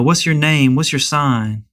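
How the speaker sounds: lightly prim and proper imitation; a hint of put-on prim white voice. Chatting up a woman in the club, lightly prim and proper. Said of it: "start talking all prim and proper".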